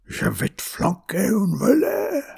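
high French threat, climbing to the end; threatening refrain. A narrator's reading. Grandmother threatening a hiding, high menacing French. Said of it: "as she hissed out a familiar refrain".

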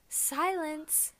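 lightly mimicked drawn-out lyric; imitating the singer's delivery. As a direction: echo how the singer delivers the word. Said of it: "the way she says".

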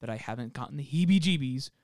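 measured reading of an eerie account; deliberate storyteller delivery; story narration. Acted. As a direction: read it like a campfire tale, lightly dramatic. Reads out a listener's account.

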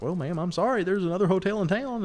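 high, polite brush-off; sweetly dismissive manager. Retold or imitated. Misty tells the old lady to leave, high and polite. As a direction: show her the door with a sweet high voice. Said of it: "And Misty's like".

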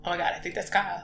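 soft and low, to yourself; hushed realisation. Retold or imitated. Fan privately spotting Kyle outside, hushed. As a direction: keep the discovery under your breath. First, private take of the sighting.

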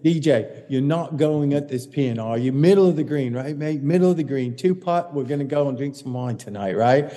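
put-on light English accent, coaxing a young player; a hint of an Englishman saying mate; imitating Poulter's English accent. Poulter coaxing Dustin to aim for the middle, light English accent. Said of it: "Poulter comes over and he goes".

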